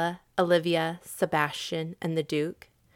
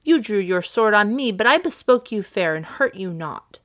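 firm, insistent rebuttal; very positive; 3 dB louder than usual. Acted. Viola protesting to Sir Andrew, very positively. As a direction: set the record straight with conviction. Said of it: "said Viola very positively".

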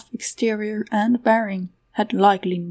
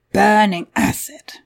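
quick corrective interjection in character; pointed little character interjection; 3 dB louder than usual. A narrator's reading. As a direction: butt in to correct the speaker. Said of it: "Patat interjected".

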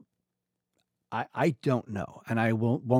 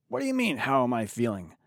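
mock angry retort; 3 semitones higher than usual. A patient snapping at someone asking how they feel. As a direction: snap back like an annoyed patient. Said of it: "They're angry".

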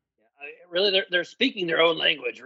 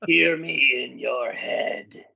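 slow spooky whisper; 4 semitones lower, much slower than usual. Acted. Skeleton speaks from beyond.

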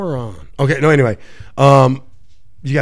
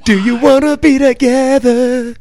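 mock pleading; 7 semitones higher, slower than usual. Plays ex-teammate pleading to reunite.

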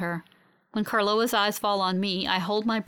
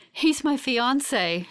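slow, higher-pitched, adoring voice; beaming with love; 6 semitones higher, much slower than usual. A narrator's reading. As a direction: draw it out lovingly. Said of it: "beaming with love".

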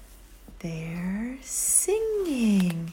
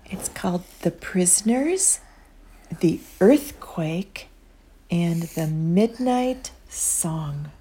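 whispered storytelling; 3 semitones lower, slower than usual. Acted. Reads title in storytelling whisper.

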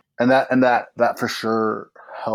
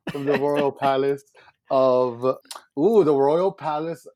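town crier; 4 semitones higher than usual. Pretend. Continues mock proclamation.

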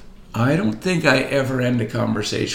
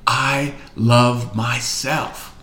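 1 said slowly; much slower than usual. Shown as a demonstration. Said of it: "How about right now you say".

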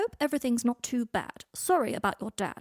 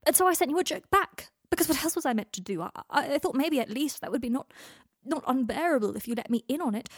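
distraught rant; 6 semitones higher, 4 dB louder than usual. A narrator's reading. Draco pouring out his distress.

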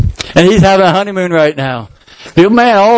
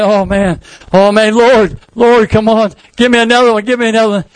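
eager delight; 4 semitones higher than usual. Acted. Carol eager for more converts.

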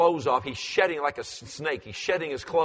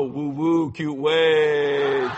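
child's imitation; 6 dB louder, much slower than usual. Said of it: "he go".

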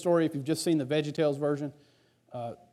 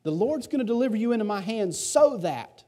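higher, fired-up David declaring victory; higher voice of David, defiant; bold David; 6 semitones higher than usual. Retold or imitated. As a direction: declare it like a confident young fighter. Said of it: "David says this".

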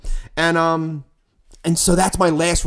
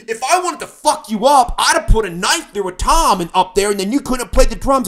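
a hint of a cocky rock drummer, pitched up a bit; famous rock drummer way; 5 semitones higher, 4 dB louder than usual. Drummer warning the singer he could have wrecked his drums, lightly mocked. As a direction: lightly play the swaggering drummer. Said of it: "in his famous rock drummer way".

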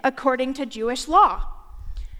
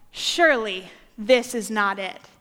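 lower, doubtful; disappointed crowd; 6 semitones lower than usual. Retold or imitated. Israelites seeing Jesus' ragtag followers, disappointed. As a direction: sound let down and skeptical.

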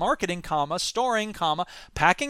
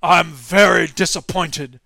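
slow, lower, detached corporate shrug; unbothered company boss; 3 semitones lower, 7 dB louder, slower than usual. Retold or imitated. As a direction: say it like a CEO who couldn't care less. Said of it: "the head of the company just went".

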